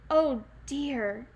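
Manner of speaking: gasped. Acted. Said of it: "Granny gasped".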